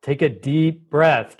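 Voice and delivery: slow, soothing reassurance; calming co-regulator. Retold or imitated. Co-regulator soothing a stressed friend, slow and calm. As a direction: talk a panicking friend down gently. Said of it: "to come and say".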